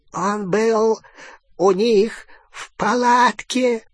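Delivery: high, slow, strained rasp; hoarse croak. A narrator's reading. Fenrir answers Bellatrix at sword point, hoarsely. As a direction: croak it out with effort. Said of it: "прохрипел Фенрир".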